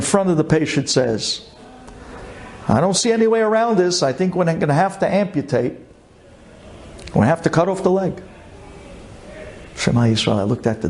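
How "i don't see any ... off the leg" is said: blunt, quick, higher-pitched doctor's verdict; tactless doctor. Retold or imitated. Doctor to patient, delivering amputation news bluntly and fast. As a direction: rattle off the bad news with no feeling. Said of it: "zero tact, no bedside manner".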